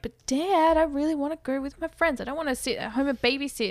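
lightly acted teenage protest, speeding up; protesting son. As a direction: plead with dad like a put-out kid. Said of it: "father-son argument".

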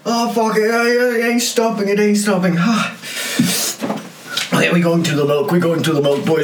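in real pain from the heat; mouth burning from spicy food. Real, not acted. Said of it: "it's burning everywhere".

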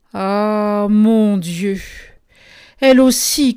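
farmer's astonished cry of dismay; stunned cry. A narrator's reading. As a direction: cry out in shock as the old farmer. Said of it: "cria monsieur Seguin stupéfait".

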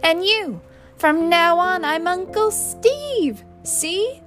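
high, very loud proclamation; roaring order. A narrator's reading. Man telling his niece what to call him, roaring. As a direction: turn the tirade on a new target.

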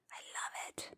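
soft unvoiced whisper. Real, not acted. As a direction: breathe it as a whisper. Whispered aside.

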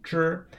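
支 high and level, with puckered consonant; high-pitched, level teacher's 支; puckered first tone. Shown as a demonstration. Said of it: "puckering consonant sound in the first tone".

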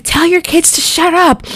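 high-pitched, lightly imitated angry order; mock angry officer. Officers cussing at the family, mock angry. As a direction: imitate an officer snapping at a parent. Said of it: "they're cussing at us".

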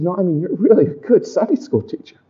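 soft, pressing, a hint of tears; wife insisting softly. Wife over lunch pressing that he's really good. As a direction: gently insist you really mean it. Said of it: "She says".

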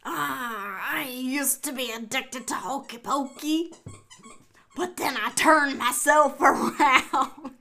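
hammed-up pirate, slowing on the punchline; pirate accent. Player tells a joke to partner, pirate accent. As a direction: tell it like a pirate losing the accent. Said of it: "the pirate".

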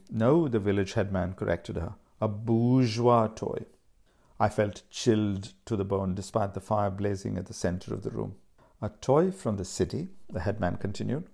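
reading a novel aloud with lightly voiced characters; story narration. A narrator's reading. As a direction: tell the story steadily, letting the scenes breathe. Reads novel excerpt aloud.

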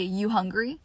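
relaxed, easy rising question; casual clipped question. Shown as a demonstration. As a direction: toss it off like to a sibling. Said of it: "You say".

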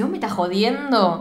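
slow, drawn-out disbelief; mock indignation. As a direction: stretch it out like an offended character. Retells character's indignant reply.

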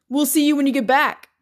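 measured, intoning male voice. A narrator's reading. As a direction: intone it calmly. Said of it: "Red intoned".

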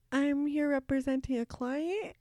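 slow, unsure answer; imitating a lost intern; retold confusion. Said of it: "I'm, like, super confused".

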